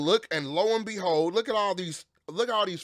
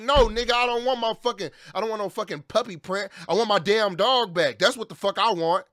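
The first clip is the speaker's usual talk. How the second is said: angry retort; 3 semitones higher, 3 dB louder than usual. Retold or imitated. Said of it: "I'm like".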